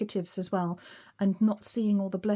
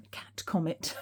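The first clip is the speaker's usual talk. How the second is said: laughing whisper; 3 semitones lower, 5 dB quieter, slower than usual. Real, not acted. Giggly aside about the cat comet.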